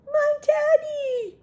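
high, loud, drawn-out wail; slow storybook cry at full volume; cried out. Acted. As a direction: wail it in acted dismay. Cried Eddie.

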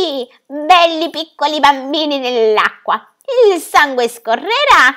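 high, slow, gloating harpy screech; eerie taunting creature voice; shrieking harpy. Acted. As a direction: sing it out like a cruel bird-witch over the water. Harpies shriek over the river.

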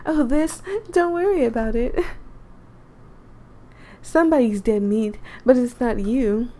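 Kat voice. Acted. Player voices Kat's reply.

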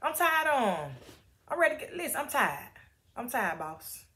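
a lightly voiced weary prophet, pitch climbing as he complains; fed-up servant griping to his boss, half-joking; exasperated Elijah. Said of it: "Elijah like".

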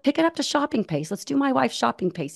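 high, lightly imitated Japanese accent. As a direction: coax a fellow runner in an attempted Japanese accent. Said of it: "he said it in his accent".

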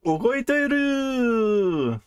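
high, slow, amazed kitten cry; surprised. Acted. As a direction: gasp it out in wonder.

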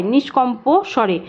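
"নিষ্কম্প স্বরে" with the প sounded as "po"; clear o-vowel. Shown as a demonstration. Teacher explaining the spelling, "নিষ্কম্প স্বরে" with an audible o ending on the first word. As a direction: let an o sound be heard after ম্প in "নিষ্কম্প স্বরে". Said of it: "যাতে ওকার উচ্চারণটা হয়".

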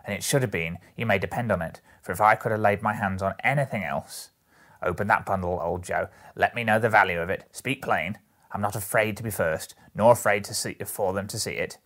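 lightly voiced bold charwoman, loud on key words; brazen woman, insistent. Woman urges old Joe to open her bundle, insistent. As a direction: push him firmly to get on with it.

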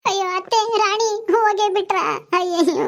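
despairing wail. Acted. Abandoned niece wailing after departing aunt. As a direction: wail as if left all alone.

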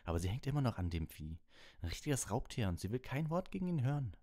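indignant, pitch soaring toward the end; angry complaint. A narrator's reading. Ron complaining to Hagrid about Hermine's cat, angrily. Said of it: "sagte Ron zornig".

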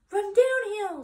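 high, loud crow call; a crow calling advice to the pig; cawing crow. A narrator's reading. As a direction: urge like an excited crow. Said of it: "suggested one of the crows".

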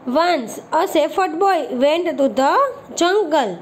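deliberate word-by-word reading; slow model reading. Shown as a demonstration. Teacher reading the English story line to pupils, very slow. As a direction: read each English word very slowly and clearly. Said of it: "reads English line slowly".

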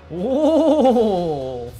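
ordinary talk, nothing marked

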